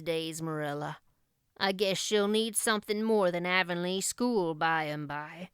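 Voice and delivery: put-on a shy old man proud of the girl; proud old Matthew.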